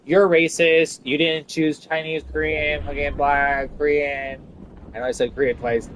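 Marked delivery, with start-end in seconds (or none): 0.1-4.4 mock accuser. Imitating critics accusing her of racism, mock outrage. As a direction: mimic people calling you racist. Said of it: "they're like".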